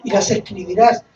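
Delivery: solemn read-aloud, swelling on the commandment; scripture reading. Acted. Preacher reads the law to the congregation, scripture reading. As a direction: declaim the verses with measured phrasing.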